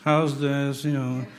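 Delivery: droning mock-miserable moaner; dolorous. Preacher imitates a gloomy acquaintance listing problems, dolorous drone. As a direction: drone on as a person full of woes. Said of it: "someone who's dolorous".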